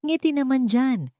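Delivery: commanding. A narrator's reading. Husband ordering his wife to smile for the cameras, commanding. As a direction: tell her to smile, like a command. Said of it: "utos ni Franco".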